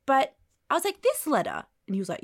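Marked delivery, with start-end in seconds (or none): 1.0-1.7 incredulous. Retold or imitated. To the census man, a stunned question. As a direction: act stunned at the letter.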